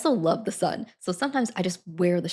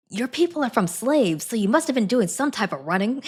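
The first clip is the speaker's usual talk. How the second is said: mock old man's thoughts; 4 semitones higher, 3 dB louder than usual. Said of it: "he might have been thinking".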